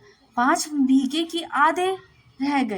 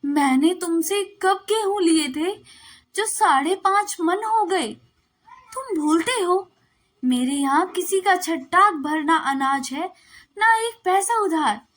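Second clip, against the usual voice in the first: rising, incredulous protest, a little higher; astonished; 4 semitones higher than usual. Acted. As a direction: caught off guard by an unfair demand. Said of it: "Shankar ने चकित होकर कहा". (हैरान होकर, थोड़ी ऊँची आवाज़ में)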